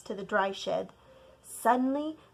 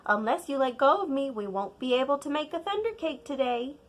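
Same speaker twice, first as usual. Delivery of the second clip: lightly voiced grandmother, quick and higher; brisk grandma; 4 semitones higher, faster than usual. Grandma urging child to let go, brisk. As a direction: coax the child along briskly.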